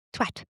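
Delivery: "twat" with a short flat a, rhyming with "hat"; carefully imitated British "twat". Shown as a demonstration. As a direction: say "twat" British-style, short open vowel. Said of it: "lesson on how to pronounce the word".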